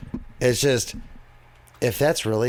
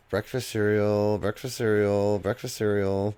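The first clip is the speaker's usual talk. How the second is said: inner monologue; 4 dB quieter, slower than usual. Retold or imitated. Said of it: "his inner monologue".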